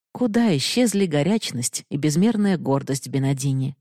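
ordinary delivery, nothing marked

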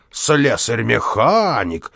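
slow, sneering cry; mocking shout. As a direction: drag the title out in scorn. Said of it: "вскрикивал дворник". (дворник насмешливо выкрикивает)

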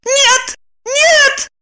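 high, frantic refusal; desperate no. A narrator's reading. Lipochka refusing to let Roman go. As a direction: refuse in despair.

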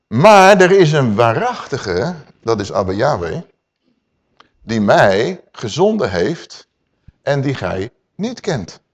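very slow, drawn-out phrases; solemn slow quote. Acted. Preacher voicing Yeshua's solemn claim, slow and drawn out. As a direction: let each phrase hang.

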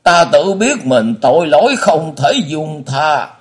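high, slow wailing remorse; anguished lament. A narrator's reading. Blind father repents before his son, wailing slowly. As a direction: wail it out, drawn out and loud.

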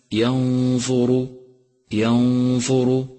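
ينظر slowly, with a full dark ر; heavy Ra. Shown as a demonstration. Teacher modelling ينظر, heavy ر. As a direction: make the final ر heavy in ينظر. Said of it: "اقرأه مفخما".

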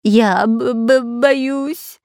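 high, shaky stutter of fear; trembling stammer. A narrator's reading. The spy admits to the captain he is scared, stammering. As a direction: squeak it out, shaking with fright. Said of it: "трясясь от страха".

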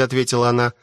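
usual speaking voice

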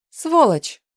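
wife screaming an insult at her husband; furious shout. Acted. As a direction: hurl the curse at him. Heroine curses husband.

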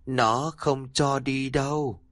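put-on slow, hollow child's warning; eerie child. The girl Hân warning her father, slow and eerie. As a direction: say it slowly, like something unseen speaks.

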